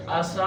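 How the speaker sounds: आसा with a long, sustained final सा; long madd. Shown as a demonstration. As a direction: draw out the सा of आसा steadily, five alifs long. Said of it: "इस तरह इसके खींचने का अंदाज है". (आसा के सा को लंबा खींचकर)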